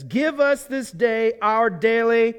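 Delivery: slow, loud lead-in left hanging; call-and-response prompt. Shown as a demonstration. Preacher prompting congregation to finish the sentence, slow and loud. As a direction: draw it out for the crowd to finish. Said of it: "finish the sentence".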